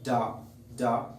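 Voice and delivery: ডা with a firm burst; sound demo. Shown as a demonstration. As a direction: drop the ডা out crisply. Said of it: "ডি এর sound সিস্টেমটা হচ্ছে ডা". (স্পষ্ট করে ডা উচ্চারণ)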